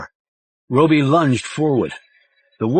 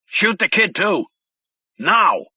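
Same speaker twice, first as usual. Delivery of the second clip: frantic handler; 8 semitones higher than usual. A narrator's reading. Handler screaming orders.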